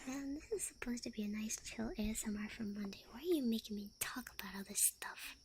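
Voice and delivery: breathy, half-whispered ASMR talk. Acted. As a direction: half-whisper it, close and intimate. Soft-spoken ASMR stream.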